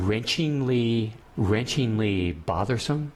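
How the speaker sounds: slow, searching for the right word; halting, word-hunting delivery; groping for words. Real, not acted. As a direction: drag out each try at wrenchingly. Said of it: "I've lost, lost for words here".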